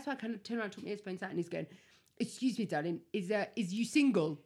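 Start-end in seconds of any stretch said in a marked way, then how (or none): 2.2-4.4 low, badly imitated London accent; attempted London accent on a chat-up line; rubbish London accent. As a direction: put on a dodgy London lad's voice. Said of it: "it's because it's a London accent".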